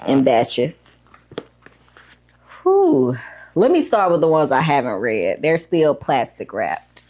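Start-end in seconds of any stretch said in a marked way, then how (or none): 2.6-3.1 breathless exhale after climbing; out-of-breath whew. Real, not acted. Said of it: "Need to catch my breath". 3.5-7.0 slightly winded after climbing; talking while catching breath. Real, not acted. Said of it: "Need to catch my breath".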